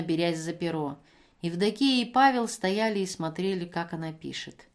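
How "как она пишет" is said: ordinary delivery, nothing marked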